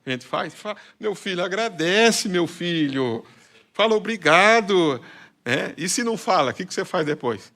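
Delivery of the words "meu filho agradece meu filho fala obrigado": mock parent prompting. Parent prompting child to thank.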